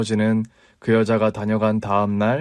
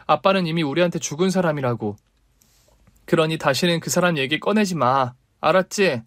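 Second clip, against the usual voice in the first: firm daughter; 4 semitones higher than usual. Acted.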